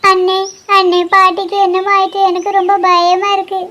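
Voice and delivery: put-on crying out worry to an older brother; frightened, tearful appeal; tearful fear. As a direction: plead for help through tears. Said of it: "அழாத நிப்பாட்டு".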